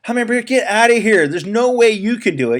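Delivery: high, frantic animal voices; panicked forest animals. Acted. Forest animals crying out in the sudden dark, panicked. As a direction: squeal it out like scared little critters.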